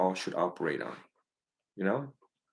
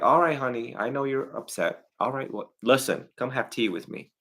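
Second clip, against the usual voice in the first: gentle American parent; 3 semitones higher than usual. Retold or imitated. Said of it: "Americans like".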